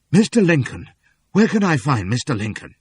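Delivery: loud, breathless call; cry out. A narrator's reading. Wounded fugitive begging townsfolk for Lincoln, breathless loud cry. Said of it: "find the breath to cry out".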